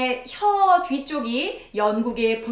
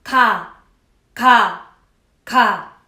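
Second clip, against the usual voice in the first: loud drill; 2 semitones lower, 7 dB louder, much slower than usual. Shown as a demonstration. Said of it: "한번 해보세요".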